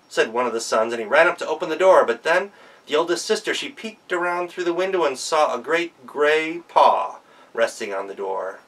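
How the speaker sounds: ordinary delivery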